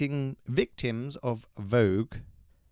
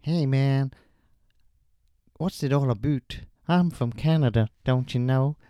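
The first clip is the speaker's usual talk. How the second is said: hammed-up fake pop-singer voice note; pop singer impression; 3 semitones higher, 6 dB louder than usual. Podcast host faking a voice note from a pop singer, hammed-up. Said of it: "He did send in a voice note".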